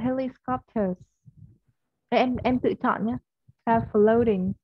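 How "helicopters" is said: British accent. Shown as a demonstration. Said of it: "Tiếng Anh Anh mình sẽ đọc là".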